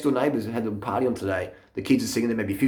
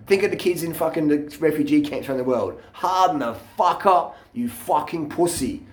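higher, slow mock taunt at a panicking friend; retold mocking taunt; 6 semitones higher than usual. Taunting his panicking mate on the ride up the hill, high and slow mockery. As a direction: jeer at him with a high, drawn-out sneer. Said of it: "I start laughing and I said".

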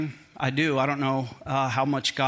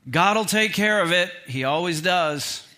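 dismissive; 3 semitones higher, 3 dB louder, slower than usual. Retold or imitated. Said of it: "with kind of this dismissive attitude".

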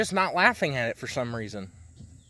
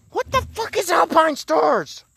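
baffled; 3 dB louder than usual. Real, not acted. Baffled at a toy label.

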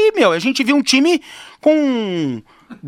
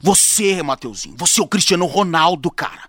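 coach pep talk; 6 semitones lower than usual. Pretend. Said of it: "o coaching falaram assim".

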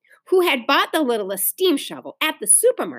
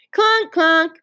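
high, loud machine clanks; child's loud clanking imitation; yelling; 6 semitones higher, 5 dB louder than usual. A narrator's reading. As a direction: yell out a pile driver noise. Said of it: "yelled Ramona".

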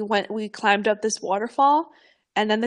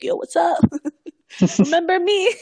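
cheeky hello; 7 semitones higher, 6 dB louder than usual. Retold or imitated. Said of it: "be like".

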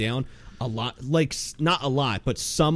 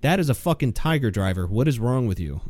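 deadpan. Retold or imitated. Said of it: "it'll be like deadpan".

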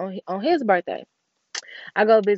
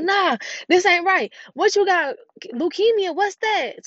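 incredulous disbelief; 10 semitones higher, 3 dB louder than usual. Retold or imitated. Dismissing the dad's diagnosis in disbelief.

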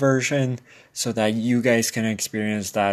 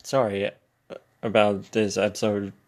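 throat clogged, a bit rough; frog in throat. Real, not acted. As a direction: talk through a throat that needs clearing. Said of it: "I got some stuff in my throat today".

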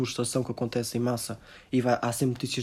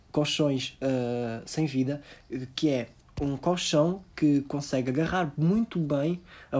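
parody influencer vlog. Pretend. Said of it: "influencers de sopa".

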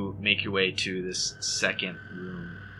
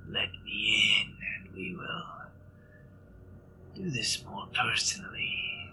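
creature whisper; 3 semitones higher than usual. Acted. Monster tempts sheriff.

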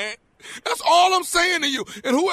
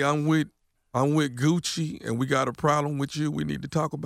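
mock threat; 11 semitones lower, 5 dB quieter than usual. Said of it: "So I can call T I and say".

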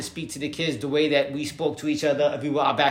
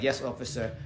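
softer, polite yes-officer tone; humble; 3 semitones lower, 4 dB quieter than usual. Retold or imitated. Teen backing down to police, humble and softer. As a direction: keep it small and respectful, backing down. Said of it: "you gotta be humble".

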